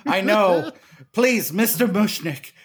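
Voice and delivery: put-on slipping into a Brooklyn accent; loud, laughing Brooklyn accent. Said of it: "I dropped my accent".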